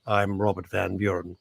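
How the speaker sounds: a hint of a meek clockmaker; mild mock clockmaker. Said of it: "He probably goes".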